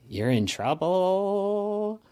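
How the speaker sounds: high, slow, strained dying voice; a dying friend warns Sloane, weak and strained; weak, wounded. Acted. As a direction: push the words out through weakness. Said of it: "weakly cough".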